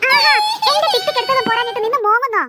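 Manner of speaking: shouting at her sister in anger; angry shout. Acted. Sister shouts at her whining sister over the hair clip, angry. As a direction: yell it across the room. Sister yells during quarrel.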